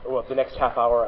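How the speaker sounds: blocked nose, nasal tone; speaking through a stuffy nose. Real, not acted. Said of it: "you're gonna hear my nasally voice".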